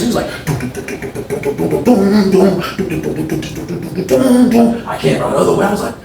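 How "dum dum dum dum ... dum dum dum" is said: footsteps imitated. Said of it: "He went up the steps fast".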